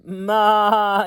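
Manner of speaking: high, loud maa; yelled goat bleat. Acted. Goat yells at the race, high and loud. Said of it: "yelled Goat".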